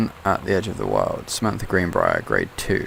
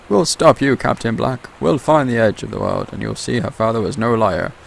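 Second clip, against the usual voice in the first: a defiant shout that eases off toward the end; yelled out; 5 semitones higher than usual. Acted. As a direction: shout a vow at the enemy captain. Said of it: "The first mate yelled out".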